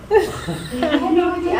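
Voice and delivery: slow, laughing repeat of the same line. Real, not acted. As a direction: let the laugh stretch the words out. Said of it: "laughing while telling the story".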